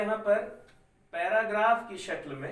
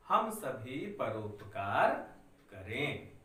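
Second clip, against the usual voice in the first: slow, spaced dictation for students to write; धीरे धीरे बोलना; 3 semitones lower than usual. Shown as a demonstration. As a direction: read each word slowly so the class can copy. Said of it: "मैं इतना धीरे धीरे बोल रहा हूँ". (बच्चों को लिखवाने के लिए धीरे धीरे पढ़ना)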